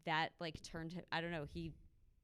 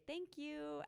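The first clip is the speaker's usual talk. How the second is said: meek thank you; 9 semitones higher than usual. Retold or imitated. Client thanking her after the pie, meek high. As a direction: thank her like a humbled sub. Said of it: "he would just say".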